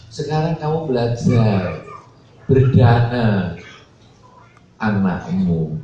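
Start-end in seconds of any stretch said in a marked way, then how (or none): none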